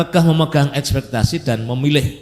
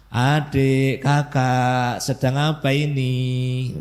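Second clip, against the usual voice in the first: gentle father; much slower than usual. Acted. Father gently greeting noisy kids.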